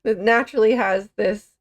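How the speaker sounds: talking through a yawn. Real, not acted. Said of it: "As I'm yawning".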